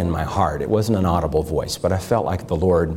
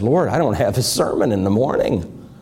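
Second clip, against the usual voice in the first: pleading retold prayer rising higher toward the end; broken prayer; 10 semitones higher than usual. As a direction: lay out the despair to God, climbing in pitch. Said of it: "and I said".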